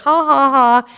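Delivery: slow, spelt-out "ha, ha, ha"; mock laugh. The women answer a supposed prank, mock laugh. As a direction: imitate an unconvinced group laugh. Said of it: "So we're like".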